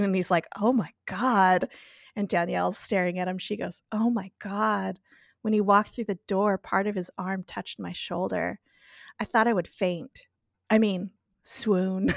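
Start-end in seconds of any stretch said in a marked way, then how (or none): 0.6-1.7 slow, mildly stunned retold reaction; understated, drawn-out astonishment; taken aback. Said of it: "takes in the scene". 3.9-12.1 smitten swooning. Retold or imitated. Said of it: "staring all googly-eyed at him".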